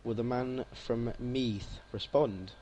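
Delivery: ordinary talk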